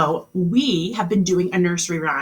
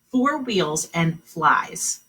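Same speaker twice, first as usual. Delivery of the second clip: slow repeat; much slower than usual. Shown as a demonstration. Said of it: "Here was the riddle".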